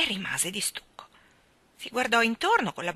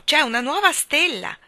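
high, loud, thrilled announcement; exclaiming; 7 semitones higher, 10 dB louder than usual. A narrator's reading. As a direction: proclaim amazing news to children. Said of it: "esclamò".

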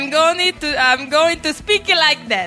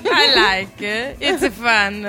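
put-on crazy Italian accent; 5 semitones lower, slower than usual. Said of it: "sotaque maluco que ela criou".

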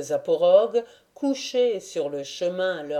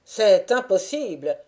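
shouted; 4 dB louder than usual. A narrator's reading. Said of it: "lui cria le zaporogue".

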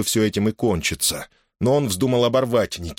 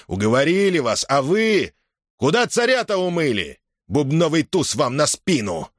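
yelling; 9 semitones higher than usual. A narrator's reading. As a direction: roar it across the table. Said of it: "заорал".

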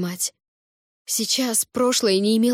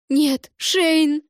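voice breaking; 7 semitones higher, 4 dB louder than usual. A narrator's reading. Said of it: "Мой голос сорвался".

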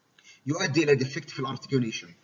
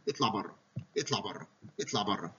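echoing repetition; 5 semitones lower, 5 dB quieter than usual. Shown as a demonstration. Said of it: "قعدت تقول".

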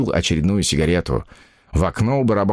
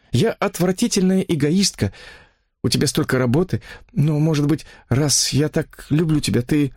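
higher, apologetic woman's voice; pleading woman; 7 semitones higher than usual. Acted. Mistress apologizing to her lover, pleading. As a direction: apologize and beg, pitched high.

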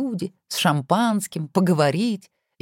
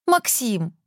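higher, calling his name in near despair; desperate cry; 7 semitones higher than usual. Acted. Wife calling her husband's name in near despair. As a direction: blurt the name out like a lifeline. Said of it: "закричала она почти с отчаянием".

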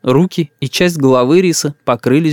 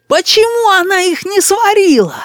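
put-on high indignant child yelling; boy's yell. A narrator's reading. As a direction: yell like a spoiled little boy. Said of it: "вопил между тем рис". (капризный детский крик)

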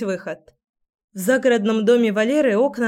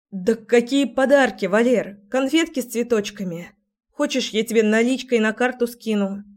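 scared rattling; 3 semitones higher than usual. Acted. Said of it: "Испуганно затараторила я".

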